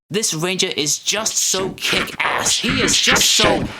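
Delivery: slow, building fanboy gush rising to a yell; rising to a squeal of delight; gushing excitement. Real, not acted. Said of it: "I'll behave".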